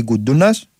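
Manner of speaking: Γκουντούνας, accent moved to the middle; Γκουντούνας stressed on middle syllable. Real, not acted. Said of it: "ή Γκούντουνας, τέλος πάντων".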